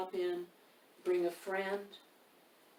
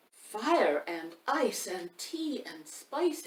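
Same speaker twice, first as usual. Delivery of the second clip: queen's exclamation; much slower than usual. Acted. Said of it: "exclaimed the queen".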